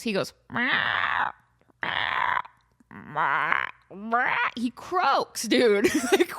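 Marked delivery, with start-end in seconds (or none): 0.5-4.4 croaky meow. Retold or imitated. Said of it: "And Kevin croaks".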